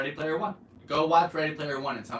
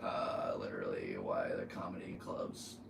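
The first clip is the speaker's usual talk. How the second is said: whispering; 8 dB quieter than usual. Real, not acted. Muttering aside to himself.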